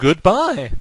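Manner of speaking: voice cracks, breaking mid-word on "goodbye". Signing off a gaming video to viewers: voice crack. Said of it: "voice crack to close the episode".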